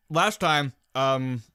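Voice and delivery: talking while eating a sandwich; mouth full. Real, not acted. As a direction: speak through a mouthful of sandwich. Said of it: "sorry, I'm eating a sandwich".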